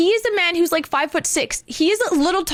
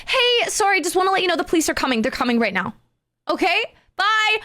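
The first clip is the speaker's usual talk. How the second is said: lightly acted chummy heads-up; pretend friendly; 5 semitones higher than usual. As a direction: start high, act like a helpful teammate. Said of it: "pretend I'm still on his team".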